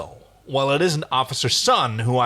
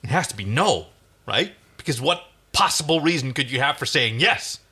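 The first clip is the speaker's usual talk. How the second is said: desperate. Acted. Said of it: "breathing heavily".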